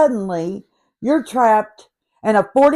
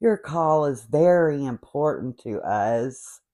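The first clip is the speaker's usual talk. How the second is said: fake politeness; 5 semitones lower, 3 dB quieter than usual. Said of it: "The fake politeness".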